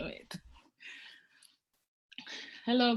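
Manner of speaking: ordinary talk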